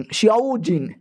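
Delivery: "शिओ जिन" stretched out slowly; unsure Chinese pronunciation. Real, not acted. Narrator having another go at the Chinese name, "शिओ जिन" said slowly. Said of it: "Chinese name कैसे pronounce करते हैं".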